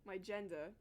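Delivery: attempted Australian accent that comes out British. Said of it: "That was not Australian, that was, that was British".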